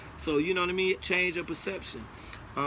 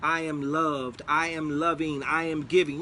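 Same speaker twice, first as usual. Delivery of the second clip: spoken affirmations. Shown as a demonstration. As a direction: declare each one like a truth about yourself. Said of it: "just record those things".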